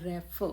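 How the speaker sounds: "रेफ" split into two spoken parts; broken into syllables. Shown as a demonstration. Teacher showing how a word breaks in two, syllable by syllable. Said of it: "दो बार टूटता है".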